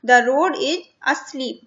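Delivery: put-on slow, clear reading to children; slow reading aloud. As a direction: read each word out slowly for the class. Teacher reading the text slowly.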